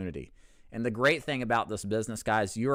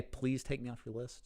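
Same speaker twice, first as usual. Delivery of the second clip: polite request; 3 semitones higher, 9 dB quieter than usual. Pretend. Models the polite version.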